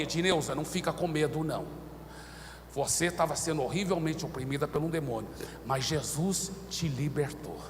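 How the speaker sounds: soft, low comfort; calm her gently; reassuring. Retold or imitated. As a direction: pastor comforting a frightened woman. Comforting freed woman.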